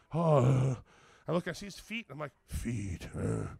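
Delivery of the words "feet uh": low, soft, dazed voice; groggy, half-conscious imitation; groggy mumble. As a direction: say it as if just coming to. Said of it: "looking around like all groggy".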